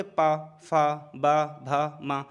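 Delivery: पा, फा, बा, भा, मा slow with lips closing each time; lip consonant drill. Shown as a demonstration. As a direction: close the lips on पा फा बा भा मा. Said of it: "आपके होंठ बार बार जो होंगे वो जुड़ रहे होंगे".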